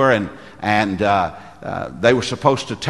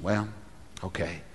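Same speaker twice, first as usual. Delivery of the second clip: small, low, very soft assent; reluctant agreement; 4 semitones lower, 13 dB quieter than usual. Retold or imitated. Trainee agreeing to face the big woman, reluctant. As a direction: give in quietly, with a hesitant pause.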